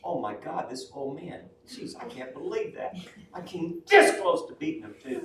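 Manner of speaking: mock panicked lady, climbing high at the end; freaking out. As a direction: imitate a flustered lady watching the finish. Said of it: "she's freaking out".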